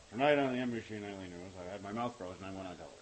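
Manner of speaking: mock newscaster with a frozen mouth; slurred-anchor send-up that breaks into laughing; Tom Brokaw. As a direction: report the news as if numb-mouthed. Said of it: "it was a perfect Tom Brokaw".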